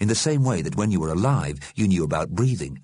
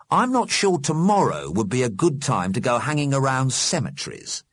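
slightly raised, doubtful character voice; lightly voiced reluctant friend; 7 semitones higher than usual. A narrator's reading. Friend unsure about tomorrow's cemetery visit, reluctant. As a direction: voice a friend gently backing out.

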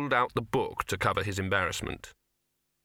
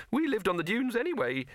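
high rabbit voice with a sigh; 12 semitones higher than usual. Acted. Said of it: "it sighed".

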